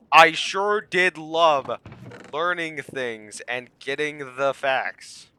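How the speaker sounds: slow, drawn-out sarcasm; sarcastic. Real, not acted. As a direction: lay the irony on thick.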